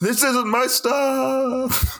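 very high voice, last word stuff stretched out. Giving a listener an impression of someone being thrown off a train. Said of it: "my impression of someone being thrown off a train".

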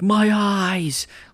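shrill cartoon yell, pitched way up high. Comparing watching the Bears to a SpongeBob scene: SpongeBob character yelling impression. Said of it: "the guy from SpongeBob that's like".

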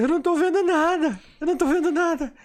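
mock exasperated, very high, loud, frustrated. Recounting a regression session, re-enact your past self's frustrated protest. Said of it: "E eu frustrado".

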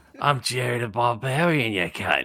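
put-on gruff character voice. Asked to channel a character, the speaker tries a gruff Butcher voice. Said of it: "With a little gruff to it".

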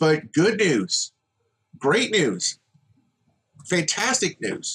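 heavy sarcasm, overdone delight. Announcing good news right after a rant about wrestling: sarcastic. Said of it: "I wish I could be more sarcastic than I already am".

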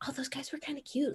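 put-on whispering. Retelling friends' reaction after getting a picture, imitating them whispering. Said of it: "them all kind of whispering like".

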